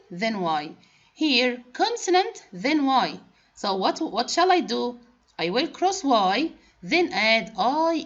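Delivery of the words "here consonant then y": emphatic high here. Shown as a demonstration. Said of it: "pointing at letters on board".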